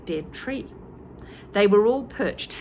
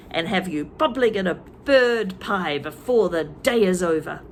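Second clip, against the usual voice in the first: angry threat. Acted. Twit threatens birds angrily.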